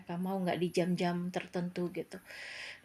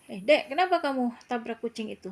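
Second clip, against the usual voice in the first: firm, slightly curt; 4 semitones higher, 5 dB louder than usual. Retold or imitated. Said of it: "nada saya tegas dan rada jutek".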